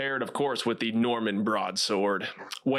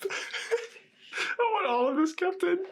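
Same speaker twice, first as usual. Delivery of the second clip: excited; faster than usual. Real, not acted. Delighted host laughing.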